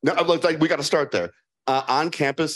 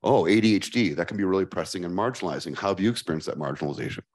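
mock therapist; 5 semitones lower, faster than usual. Shown as a demonstration. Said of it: "Or do they say".

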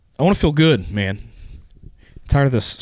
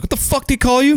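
squeaky, much higher baffled voice; high-pitched Ortiz impression; 14 semitones higher than usual. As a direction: play Ortiz high and confused.

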